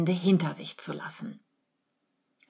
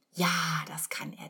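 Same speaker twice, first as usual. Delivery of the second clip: innerer Gedanke; 5 dB quieter than usual. A narrator's reading. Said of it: "denkt sie".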